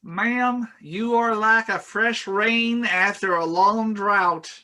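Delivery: put-on a dazzled young man proposing; smitten NPC.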